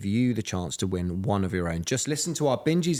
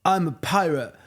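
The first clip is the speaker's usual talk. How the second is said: kid playing pirate; 7 semitones higher than usual. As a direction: play a small boy hamming up a pirate. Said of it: "the other one was going".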